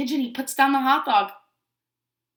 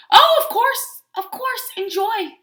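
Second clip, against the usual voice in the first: sweet Duckling voice; 9 semitones higher, 7 dB louder, slower than usual. Acted.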